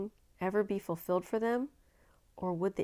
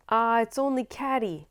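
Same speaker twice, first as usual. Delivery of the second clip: put-on louder, higher boy's voice brushing it off; Tom's loud dismissal; 5 semitones higher, 7 dB louder than usual. Tom dismisses the war whoop, louder and higher. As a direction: toss it off loudly, it's only her.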